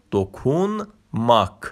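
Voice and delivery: دوکونماک said slowly, falling; slow Turkish word. Shown as a demonstration. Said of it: "دوکونماک یعنی لمس کردن".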